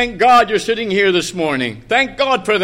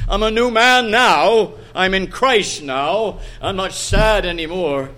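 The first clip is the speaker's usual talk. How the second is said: joyful proclamation; 2 semitones higher than usual. Retold or imitated. Saved sailor telling all his mates, joyful proclamation. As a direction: declare it out to everyone.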